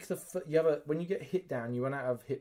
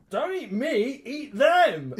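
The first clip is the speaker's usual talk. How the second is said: loud, high hammed-up begging; mock panicked plea; 11 semitones higher, 8 dB louder, much slower than usual. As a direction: beg a monster in comic panic. Acts pleading with attacking monster.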